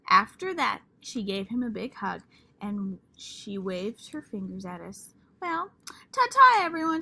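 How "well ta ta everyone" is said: high sing-song ta-ta; grand farewell. Acted. Lucille says a grand goodbye to the class, high and loud. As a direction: wave the class off like a star.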